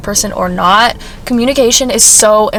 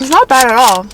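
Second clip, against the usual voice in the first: chewing while talking; mouth full. Real, not acted. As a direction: talk through a mouthful of pastry. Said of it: "Sorry, I'm chewing and speaking".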